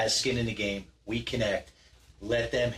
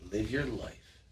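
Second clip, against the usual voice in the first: softer, whispered challenge; dramatic whisper; 4 semitones lower, 12 dB quieter than usual. Acted. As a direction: whisper it like a secret dare. Motivational host asks a dramatic question.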